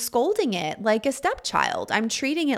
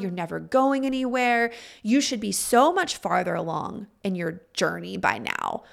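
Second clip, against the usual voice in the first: nagging, exasperated scolding in a mild put-on tone; a touch of a scolding parent, lightly voiced. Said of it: "very mocking, very scolding".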